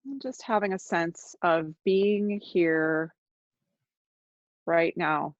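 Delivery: unhurried meditation guide with long silences; guided meditation. Real, not acted. Teacher guiding listeners to notice their body, calm guided meditation. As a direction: ease listeners into noticing, leaving long pauses.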